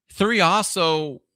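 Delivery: slow breathy hush on three also; dramatic whisper. Real, not acted. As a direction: lean in and breathe the words. Mystical aside on number three.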